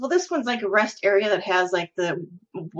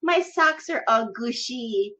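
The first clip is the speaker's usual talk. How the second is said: slow, lightly voiced childish complaint; a hint of a goofy child, drawn out; husband's put-on simpleton voice. Wife imitating husband's silly complaint, lightly put-on childish voice. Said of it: "act like a special ed person".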